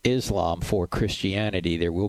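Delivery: upbeat host plugging the book over music; radio break promo. Acted. Radio host teasing the next segment to listeners, promo read. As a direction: sell the book before the break.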